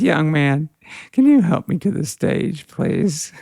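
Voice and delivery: a hint of a drunk woman asking sweetly for help; tipsy older lady. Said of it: "and she says".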